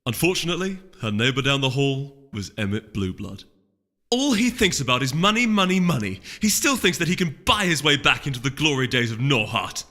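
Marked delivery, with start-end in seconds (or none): 4.1-9.9 loud, high contemptuous scoff. Acted. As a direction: sneer at the rival's greed. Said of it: "she scoffed".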